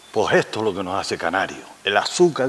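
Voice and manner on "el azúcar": "azúcar" said as "asuca"; "azúcar" ending on an open A; typical Canarian. Shown as a demonstration. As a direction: drop the R of "azúcar", S for Z. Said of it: "decirlo así".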